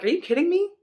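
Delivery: high, scornful taunt of a bully giant; mocking giant Goliath. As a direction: sneer down at the little kid. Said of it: "And Goliath is like".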